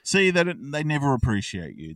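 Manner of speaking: lightly voiced goading little devil; hint of a needling shoulder devil; evil cherub. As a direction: start high and loud, then drop back. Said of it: "little evil cherub on his shoulder's like".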